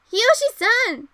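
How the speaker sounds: high, loud cry of his name; calling out loud. Acted. Mayu calling the unconscious Hiyoshi, loud and high.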